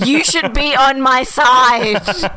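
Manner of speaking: loud hissed whisper-yell at the wife; angry whisper. Retold or imitated. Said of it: "the angry whisper to the wife".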